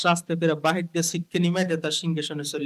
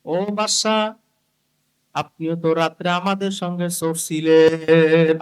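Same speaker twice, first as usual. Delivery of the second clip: acted call with a drawn-out, louder finish; 5 dB louder, slower than usual. Thief calling out to the king, drawn-out call. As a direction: hail the king and stretch the last word. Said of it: "ডাক দিয়ে বলতেছে".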